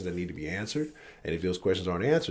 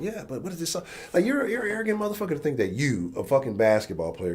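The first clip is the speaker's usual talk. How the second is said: much higher, louder exasperated rant; frustrated outburst; 9 semitones higher, 6 dB louder than usual. Real, not acted. Streamer ranting at players who boycott, exasperated and loud. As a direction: let the frustration burst out. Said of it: "I'm fucking frustrated".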